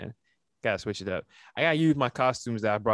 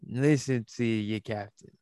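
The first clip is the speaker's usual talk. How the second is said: put-on drunk pirate captain. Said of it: "you sound like a drunk captain".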